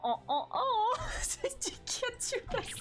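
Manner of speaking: high laughing squeals; giggle-shriek in mock horror; laughing panic. Real, not acted. Reacting to Frost showing up, high laughing squeals.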